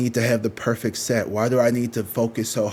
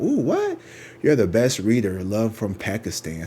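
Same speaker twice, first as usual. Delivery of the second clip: mock fan comment. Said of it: "If you want me to say something".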